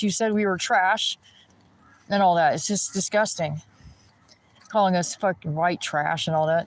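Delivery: usual speaking voice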